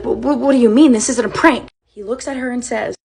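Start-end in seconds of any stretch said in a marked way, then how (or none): 0.0-1.7 louder, stammering and upset; stammering disbelief. Retold or imitated. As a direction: stumble over it in shock. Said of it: "She stops him".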